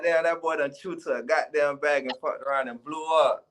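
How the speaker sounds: imitating people talking. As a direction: play the hyped-up people reacting. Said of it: "They gonna be like".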